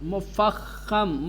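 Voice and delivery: مفخم drawn out very slowly, syllable by syllable; slow careful word. Shown as a demonstration. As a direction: stretch مفخم out slowly for the class. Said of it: "کیا کہتے ہیں؟".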